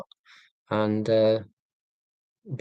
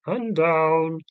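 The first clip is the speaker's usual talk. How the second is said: exaggerated downward inflection; 5 semitones higher than usual. Shown as a demonstration. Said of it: "consciously inflect my voice".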